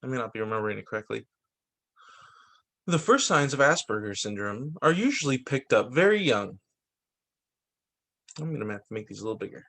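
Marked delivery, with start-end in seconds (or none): 2.9-6.6 measured read-aloud storytelling; picture-book narration. A narrator's reading. Reader sharing a book on ADHD, picture-book narration. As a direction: read it out clearly, phrase by phrase.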